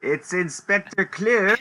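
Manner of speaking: lightly voiced stern inspector.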